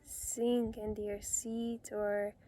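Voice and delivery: calm meditation guide with long pauses between phrases; unhurried, soothing instructions, phrase by phrase; guided meditation. Real, not acted. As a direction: gently lead them into relaxation, leaving space to breathe.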